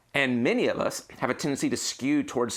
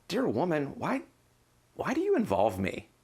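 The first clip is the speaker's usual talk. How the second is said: a touch disrespectful, talking down; condescending jab at a mother; 4 semitones higher than usual. Shown as a demonstration. Jesus to his mother, sounding condescending and disrespectful. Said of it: "it can sound rather condescending".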